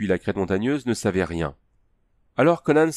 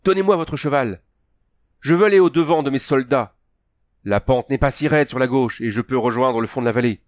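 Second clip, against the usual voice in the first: higher, louder urgent orders; urgent commands; 5 semitones higher, 3 dB louder than usual. A narrator's reading. Princess urging Conan to give her his horse, higher and urgent. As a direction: press him with urgent orders.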